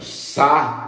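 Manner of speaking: "saúde" high, broken into sa-ú-de with pauses; hiatus split. Shown as a demonstration. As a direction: separate the A and the U in "saúde". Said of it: "O A fica numa sílaba". ("saúde" em hiato, sílaba por sílaba)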